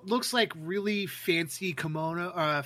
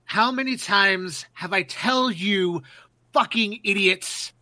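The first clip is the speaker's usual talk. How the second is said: angry npc yell; 6 dB louder than usual. Acted. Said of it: "And he goes".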